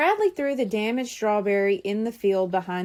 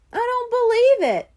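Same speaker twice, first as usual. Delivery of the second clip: surprised; 12 semitones higher, 5 dB louder than usual. Acted. Kids find bitten strawberry.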